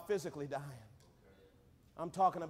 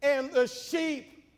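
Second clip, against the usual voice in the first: firm, projected scripture proclamation; preaching; 6 semitones higher, 7 dB louder, slower than usual. Acted. Preacher quotes Zechariah and the disciples, projected preaching. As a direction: declare the verse to the congregation.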